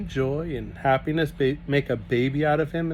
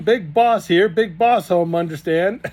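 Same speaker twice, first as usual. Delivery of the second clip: put-on eager boy; 6 semitones higher, 7 dB louder than usual. Jancy speaking broken English.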